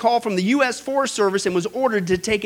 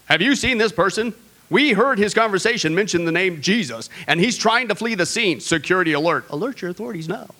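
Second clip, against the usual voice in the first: lightly voiced mock alert announcement, security alert repeated; streetlight security announcement. Preacher imagines the light post warning about a Jesus talker, in a mock announcer voice. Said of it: "our light post said something like this".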